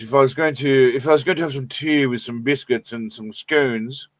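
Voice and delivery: lightly put-on British documentary accent; a rough go at a British accent; David Attenborough. Shown as a demonstration. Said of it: "I could do a David Attenborough kind of British accent".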